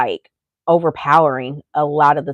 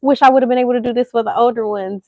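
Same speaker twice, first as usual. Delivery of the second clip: guilty regret; 7 semitones higher, faster than usual. Retold or imitated. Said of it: "because it's just like".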